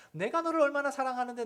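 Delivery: high, loud, hurt protest of a parent; pleading parent. Retold or imitated. Parent insisting to child how much they love them, high and hurt.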